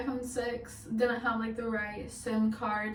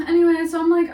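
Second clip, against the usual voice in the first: laughing; 6 semitones higher, 12 dB louder, faster than usual. Real, not acted. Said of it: "laugh cry heard".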